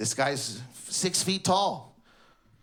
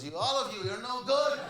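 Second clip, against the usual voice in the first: mild mock yell, rising higher; 6 semitones higher than usual. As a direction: imitate a dad scolding kids from the sidelines. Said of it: "yelling at kids".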